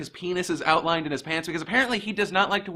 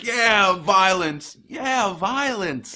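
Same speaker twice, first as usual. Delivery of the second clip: mock cheering; 3 semitones higher, 4 dB louder, much slower than usual. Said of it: "I resist to not be like".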